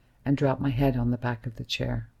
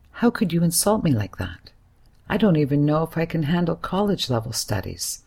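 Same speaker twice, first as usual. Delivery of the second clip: raised, hurt shout; 3 semitones higher than usual. Acted. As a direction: yell it at him through the phone. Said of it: "I shout at him".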